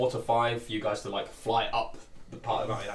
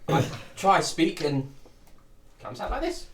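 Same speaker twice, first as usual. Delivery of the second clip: half dragon voice; 5 semitones higher, slower than usual. Acted. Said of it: "your draconic voice".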